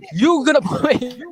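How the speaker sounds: slow, laughing echo of the threat; laughing mock repeat. Real, not acted. Mocking the threat to bot him, laughing and slow. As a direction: laugh it back at him, drawn out.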